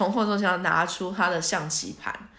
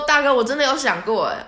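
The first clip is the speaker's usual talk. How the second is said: emphatic; 6 semitones higher, 6 dB louder than usual. Retold or imitated. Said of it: "我就说".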